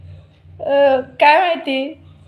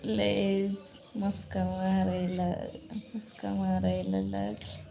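teasing; 7 semitones lower, 13 dB quieter, slower than usual. Real, not acted. Teasing friend about flattery.

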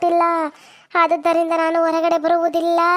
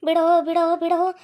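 possessed spirit voice. Acted. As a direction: beg to be let go as the trapped spirit. Possessed woman speaks as spirit.

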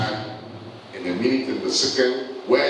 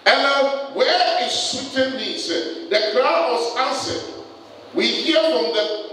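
raised-pitch, emphatic sermon delivery; impassioned preaching; 10 semitones higher, slower than usual. Real, not acted. Preacher recounting the crowd's answer, impassioned preaching. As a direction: carry the Bible account out to the congregation.

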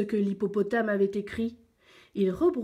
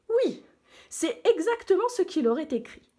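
satisfied lion; 9 semitones higher than usual. A narrator's reading.

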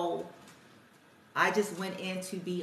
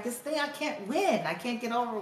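higher-pitched retold complaint of a frustrated kid; frustrated son; 4 semitones higher than usual. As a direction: imitate a boy griping, voice lifted. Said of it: "telling me he's frustrated".

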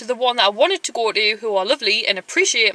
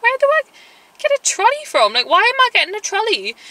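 mock incredulous; 11 semitones higher than usual. Retold disbelief at shop worker.

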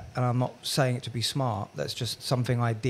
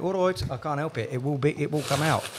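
put-on Brummie, pitched up; Birmingham accent; 2 semitones higher than usual. Shown as a demonstration. Admitting the accent slips out around locals, Brummie. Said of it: "if I'm in Birmingham long enough".

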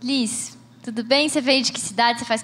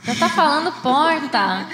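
amused, laughing through the question; giggly disbelief; 4 semitones higher, 3 dB louder than usual. Real, not acted. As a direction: tease her with a laugh. Teasing about her new accent.

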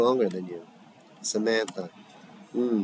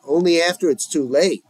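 heated retort; 5 semitones higher, 5 dB louder than usual. Acted. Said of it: "the volume goes up in their next words".

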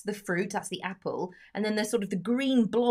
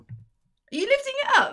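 excited; 8 dB louder than usual. Real, not acted. Reacting to cake lifted up.

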